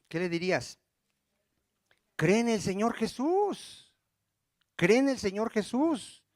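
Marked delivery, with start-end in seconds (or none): 2.2-6.2 drawn-out, higher-pitched reply; patient insistent answer. Acted. Preacher models the answer to someone seeking salvation, patient insistence. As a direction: stretch it out slowly, lifting the pitch.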